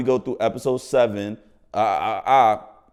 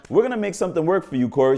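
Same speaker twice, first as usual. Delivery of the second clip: upbeat promise; 7 semitones higher, 4 dB louder, faster than usual. Retold or imitated. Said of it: "She said it, like, in front".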